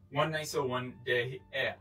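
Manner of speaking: slow, careful Belize Creole accent. Shown as a demonstration. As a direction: spell out the Belize Creole example slowly. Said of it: "can be expressed in Creole as".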